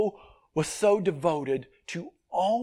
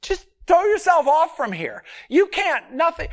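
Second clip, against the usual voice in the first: voicing Satan goading; 9 semitones higher, 4 dB louder than usual. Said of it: "And he said".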